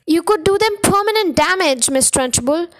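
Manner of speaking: teacher protesting to the headmistress; crying out. Acted. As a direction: cry out in alarm for the child. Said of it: "Miss Honey cried out".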